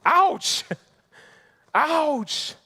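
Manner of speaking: high, loud wincing exclamation with a laugh; mock pained ouch. Real, not acted. Preacher winces at the judgment on Eli, high and loud. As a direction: wince out loud at the harsh news.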